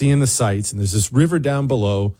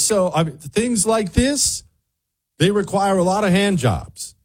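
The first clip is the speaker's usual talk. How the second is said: tour guide voice; 8 semitones higher than usual. Retold or imitated. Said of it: "she looks at the bridge and she says".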